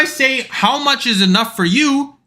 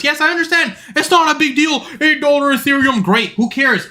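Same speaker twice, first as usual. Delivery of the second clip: higher-pitched, brushing off the objection; dismissive concession; 4 semitones higher than usual. Acted. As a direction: concede it as if it hardly matters. Mock concession to unimpressed viewers.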